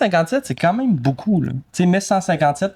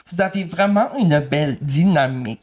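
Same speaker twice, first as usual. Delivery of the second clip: mock self-important compliment; putting on airs; 2 semitones higher than usual. Co-host imitating people who praise their dynamic, putting on airs. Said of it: "ils se donnent un air".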